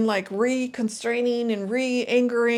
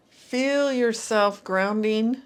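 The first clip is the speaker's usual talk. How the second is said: guided grounding cue; slower than usual. Shown as a demonstration. Guiding the listener into their body, slow and calm. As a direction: draw the words out slowly, rising at the end. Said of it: "And when I say feel yourself grounding".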